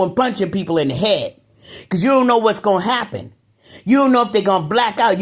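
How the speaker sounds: warning people who start fights; heated warning. Real, not acted. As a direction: wag a finger, voice climbing.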